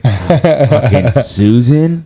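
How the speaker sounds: mock catty coworker. Mocking a hated coworker.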